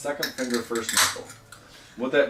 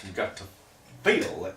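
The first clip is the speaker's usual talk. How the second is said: evangelist voice; 3 semitones lower than usual. Shown as a demonstration. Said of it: "That was my evangelist voice".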